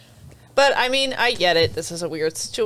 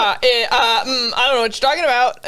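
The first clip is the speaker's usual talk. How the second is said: flustered denial; 3 semitones higher than usual. Retold or imitated. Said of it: "she's like".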